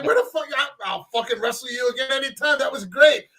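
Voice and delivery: thrilled wrestler, retold with gusto; excited retold quote. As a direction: act out a wrestler buzzing after a beating. Flair acted as thrilled after a beating.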